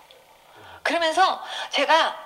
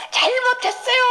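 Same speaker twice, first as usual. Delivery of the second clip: high re-enacted plea for forgiveness; high, imploring mock cry; tearful apology; 10 semitones higher, 3 dB louder than usual. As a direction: beg like a child who's sorry. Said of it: "하나님한테 막 이렇게 빌기 시작했어요".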